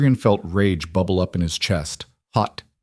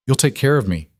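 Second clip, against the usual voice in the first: mocking his words back at him, a bit higher; bitter echo; 5 semitones higher than usual. Mara repeating Adrian's offer in a bitter mocking echo. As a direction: throw his promise back with bitter disbelief. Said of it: "a bitter, broken sound".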